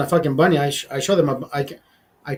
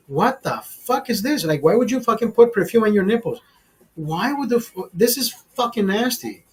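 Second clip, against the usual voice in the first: retold disgusted annoyance; 4 semitones higher than usual. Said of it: "would fucking tick me the fuck off".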